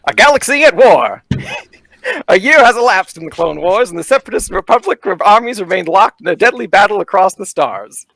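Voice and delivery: booming carnival barker narration. Acted. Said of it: "I'm gonna put on my best, like, uh, carnival barker voice here".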